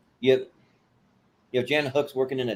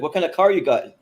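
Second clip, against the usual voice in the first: Southern redneck; 5 semitones higher, 6 dB louder than usual. Retold or imitated. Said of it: "totally Southern redneck".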